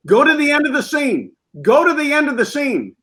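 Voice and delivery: high, urgent mock shout from afar; retold director yelling. Director yelling across the set to the actor, mock shout. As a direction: call it out like a distant director. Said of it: "the director's yelling".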